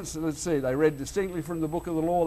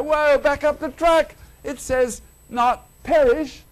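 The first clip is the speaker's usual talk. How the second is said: loud, higher "whoa, back up"; excited objection; 8 semitones higher, 5 dB louder than usual. Retold or imitated. Preacher retelling his own outburst at the radio, loud. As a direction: pull the reader up short, slowly. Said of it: "And I go".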